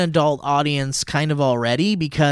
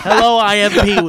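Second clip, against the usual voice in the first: Pee-wee doll voice; 2 semitones higher, 6 dB louder than usual. Retold or imitated. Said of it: "doll that you pull the string".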